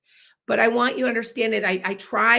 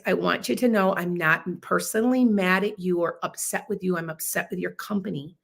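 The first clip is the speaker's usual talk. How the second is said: calm reassuring; 3 semitones lower than usual. Shown as a demonstration. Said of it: "something that you can do when you are angry".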